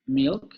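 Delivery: "milk" slowed, holding the dark L; drawn-out milk. Shown as a demonstration. Teacher showing the dark L in "milk". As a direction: stretch "milk" to show the velar L. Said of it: "una palabra como milk".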